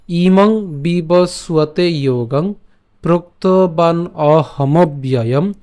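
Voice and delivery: ইমং বিবস্বতে যোগং drawn out slowly; slow model recitation. Shown as a demonstration. Teacher repeats the verse slowly for students to follow. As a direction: recite each word slowly and clearly. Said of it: "আমি আবার বলছি".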